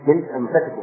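أنفسكم with a short a after the f; variant reading, fatha. Shown as a demonstration. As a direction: pronounce أنفسكم as anfasikum. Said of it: "هذه من النفاسة".

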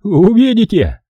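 high, overwrought cry; voice breaking with rage. A narrator's reading. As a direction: burst out again, pitched right up. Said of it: "пробормотал он прерывающимся голосом". (срывающийся от ярости возглас)

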